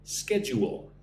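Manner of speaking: schedule with a clear "you" in the middle; clear pronunciation model. Shown as a demonstration. Teacher showing learners the word, clearly pronounced schedule. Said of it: "Put the word "u" in the middle".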